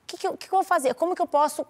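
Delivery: pleading with herself, lightly; desperate self-talk. Retold or imitated. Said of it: "Eu falei assim". (desesperada consigo mesma)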